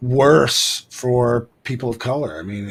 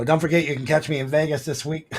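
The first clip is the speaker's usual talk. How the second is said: Jay Leno sign-off; 3 semitones higher, faster than usual. Retold or imitated. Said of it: "Jay Leno at the end of his show".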